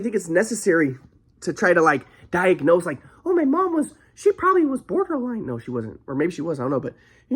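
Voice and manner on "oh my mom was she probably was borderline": mock diagnosis. Mocking armchair diagnosis.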